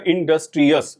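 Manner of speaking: इंडस्ट्रियस in beats, in-dus-tri-yas; syllable by syllable. Shown as a demonstration. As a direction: sound out इंडस्ट्रियस in separate parts. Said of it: "जिनमें एक से ज्यादा syllables".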